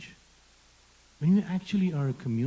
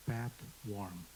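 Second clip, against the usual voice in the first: Indian accent; 3 semitones lower, 10 dB quieter than usual. Shown as a demonstration. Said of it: "in my Indian accent".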